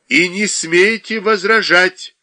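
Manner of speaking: narrated shout, forceful and deliberate; angry shout. A narrator's reading. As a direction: raise your voice and forbid any argument. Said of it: "кричала Инга".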